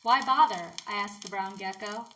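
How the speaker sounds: measured, even poetry recital; poem reading. Acted. Sharing their own poem with listeners, measured poem reading. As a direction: read your own poem in steady, lightly formal phrases.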